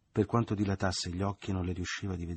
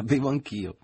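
higher and louder, gleeful; overjoyed mother cries out; delighted cry; 7 semitones higher, 7 dB louder than usual. A narrator's reading. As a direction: shout it out with glee. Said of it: "gridò la madre contentissima".

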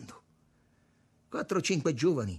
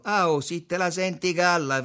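high, loud irritated retort; getting sour; 7 semitones higher, 8 dB louder than usual. A narrator's reading. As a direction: snap back, starting to lose patience. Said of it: "cominciò a prendere un po' d'aceto". (replica inacidita)

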